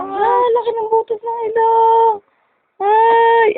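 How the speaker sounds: high-pitched cooing tease. Real, not acted. Teasing crying baby about nose.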